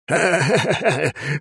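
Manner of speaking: put-on high drunk cackling; crazed cackle. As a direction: laugh like a madman. Father's mad laugh.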